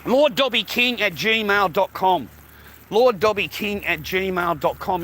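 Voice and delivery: slowly spelling out an email address; each word spaced so viewers can note it; slow dictation. Real, not acted. Streamer slowly reads his PayPal email to viewers. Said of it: "That's my PayPal".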